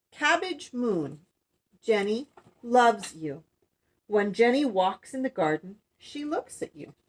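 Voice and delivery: put-on measured read-aloud to children; storybook reading. Woman reading The Cabbage Moon to young viewers, storybook narration.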